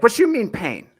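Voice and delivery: high, insistent mock Cuban accent. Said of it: "She was Cuban".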